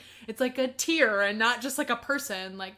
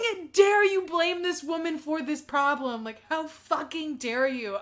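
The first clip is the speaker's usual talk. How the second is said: indignant, raised-pitch scolding; retold angry rebuke; so mad; 5 semitones higher than usual. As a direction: scold with outrage, slowing on the repeat. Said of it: "I get so mad".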